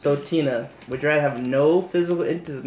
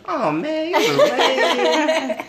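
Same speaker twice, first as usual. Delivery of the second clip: mock disappointed; 14 semitones higher, much slower than usual. Host mock disappointed, laughing.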